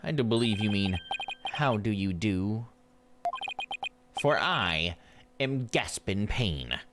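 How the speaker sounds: smug prosecutor voice. Acted. Voices rival prosecutor Gaspen.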